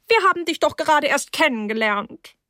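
high hostess voice, a touch of laughter; laughing. A narrator's reading. Hostess protesting at her guest leaving, lightly laughing. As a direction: start high and glide down, amused protest. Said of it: "sagte Misses Rose lachend".

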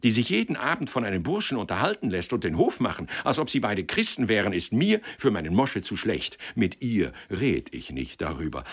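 animated, indignant retelling with mild bluster; lively, worked-up complaint; aggrieved matchmaker. Acted. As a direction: recount the insult in rising exasperation.

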